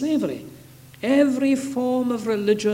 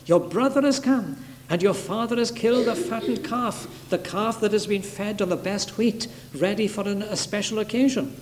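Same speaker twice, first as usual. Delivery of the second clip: excited servant; 2 semitones higher than usual. Retold or imitated. Servant telling the elder brother of the homecoming, acted excitement. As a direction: imitate someone breaking happy news, pitched up. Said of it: "the servant is quite excited".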